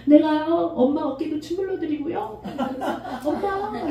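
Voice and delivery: put-on high, sing-song coaxing little girl; lightly voiced child sweet-talking mom; cute coaxing child. Pastor imitating a girl sweet-talking her mother, high and coaxing. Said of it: "이러면서 막 애교 떨면서".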